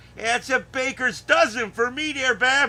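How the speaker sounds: put-on sketch-comedy Chicago accent. Retelling a favorite sketch, quoting a character's reply in a chicago accent. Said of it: "people do the Chicago accent".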